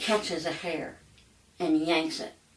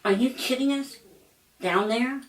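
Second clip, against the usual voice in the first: higher, incredulous shriek of shock; shocked disbelief; 6 semitones higher than usual. Retold or imitated. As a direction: ask it as if you can't believe it. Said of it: "what they actually said".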